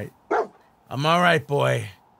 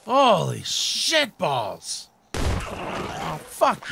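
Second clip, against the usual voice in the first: drawn-out disgust; 3 semitones higher, much slower than usual. Real, not acted. Aftermath of a gross fight.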